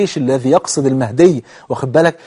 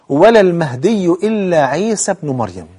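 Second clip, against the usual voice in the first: slow, deliberate closing clause; measured formal Arabic, falling at the end; careful hadith recitation; 3 semitones higher, slower than usual. Shown as a demonstration. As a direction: recite the conclusion with drawn-out vowels. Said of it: "ركز في الحديث".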